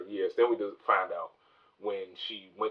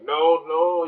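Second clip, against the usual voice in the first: higher, louder mock scream of no; retold scream; 8 semitones higher, 8 dB louder than usual. Tied-up captive begging not to be killed, mock scream. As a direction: yelp a retold no, no in panic. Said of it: "And the guy's screaming".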